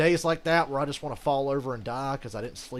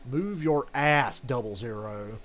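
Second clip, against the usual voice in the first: louder, slow call to move; yelling at a rival; 5 dB louder, slower than usual. Real, not acted. Gamer yelling at a rival racer to move. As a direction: bark it at the car ahead.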